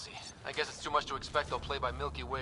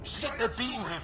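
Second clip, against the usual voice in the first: alarmed shout; 8 semitones higher than usual. Acted. Ally beaten by aliens.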